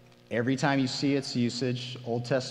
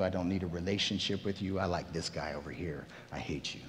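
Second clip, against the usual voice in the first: a hint of a scornful rich man, quieter, fast, dropping lower; disdainful rich man; 4 semitones lower, 5 dB quieter, faster than usual. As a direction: brush the poor man off quickly and coldly, under the breath. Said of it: "You say to the well-dressed guy".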